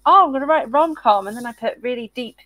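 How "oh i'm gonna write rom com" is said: mock cheerful. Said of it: "I keep going".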